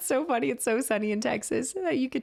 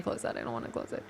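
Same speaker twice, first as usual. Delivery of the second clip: nervous whisper; 11 semitones lower, 8 dB quieter, faster than usual. Real, not acted. Nervous aside in horror game.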